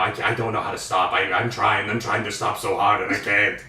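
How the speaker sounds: a hint of a low theatrical voice; lightly voiced plea, stuck in character; Harvey Fierstein voice. Host retells being stuck in Fierstein voice, lightly low. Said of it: "I was talking like this all day".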